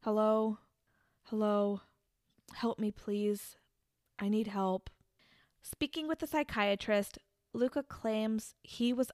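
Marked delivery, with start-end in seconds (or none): 0.0-4.9 lightly voiced eerie monotone plea; a hint of a creepy, empty call for help; mild imitation of the killer's eerie monotone. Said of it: "like, creepy monotone voice".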